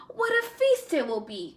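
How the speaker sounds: mild greedy gloat to himself. Acted. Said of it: "Coyote said to himself".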